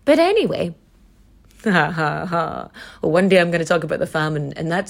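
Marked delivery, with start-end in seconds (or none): 1.6-2.7 hollow, spaced-out "ha, ha, ha"; mock laugh. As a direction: laugh drily, one separate ha at a time. Mock laugh before a grim topic.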